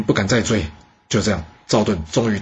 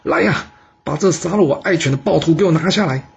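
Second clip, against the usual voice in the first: furious command, pitched up high; angry shout; 6 semitones higher than usual. A narrator's reading. Duke yells at his guards over his dead dog, angry shout. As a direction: yell for the guards in a rage. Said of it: "非常生气的大叫说".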